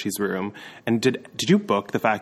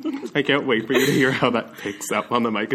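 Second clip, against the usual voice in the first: laughing. Real, not acted. Laughing at gross eating sounds.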